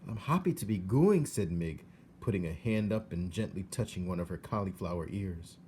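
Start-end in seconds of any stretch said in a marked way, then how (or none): 0.1-1.3 put-on high, rough country girl voice; matter-of-fact young servant girl; pitched-up peasant girl; Mig's voice. A narrator's reading. Mig voiced in story.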